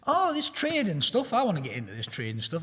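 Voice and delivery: light mock Yorkshire accent, starting high; a bit of Yorkshire, like a keen newbie; jokey half-done Yorkshire twang. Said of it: "I put Yorkshire accent on".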